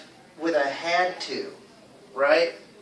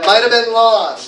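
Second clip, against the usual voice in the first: MIGHT and LOST punched loud, higher; stress on might, lost; 4 semitones higher, 8 dB louder than usual. Shown as a demonstration. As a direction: drill it with "have been" squeezed short. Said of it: "say it a little louder and say it a little longer".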